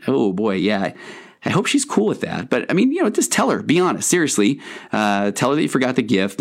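a hint of an easygoing, reassuring buddy; amateur acting of a kind, casual guy; guilt as a nice guy. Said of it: "I am the world's worst actor".

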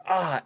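mild re-enacted cry at a hair yank; pained yelp. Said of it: "I got, I got pissed".

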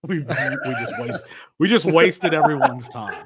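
amused, words broken up by laughter; laughing. Real, not acted. Host joking with co-host about the segment, laughing. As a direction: talk through a laugh.

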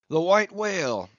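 put-on a rueful old English whaler telling his loss; a hint of a weathered English captain; Englishman captain. Englishman's voice in dialogue.

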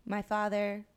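slow, lifeless church reading; flat reading. Retold or imitated. Parishioner reading Jesus's line with no feeling. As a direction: read it dead and deliberate. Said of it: "someone would be like".

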